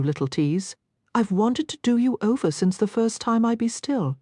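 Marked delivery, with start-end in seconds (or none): 3.5-4.2 snarled. A narrator's reading. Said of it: "He snarled the last two words with a roughness".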